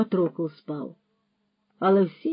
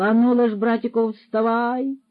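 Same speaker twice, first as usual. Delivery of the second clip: rousing call; 5 semitones higher, 7 dB louder than usual. Acted. Waking Roman with a shove.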